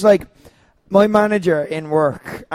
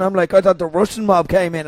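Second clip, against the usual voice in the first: ordinary talk, nothing marked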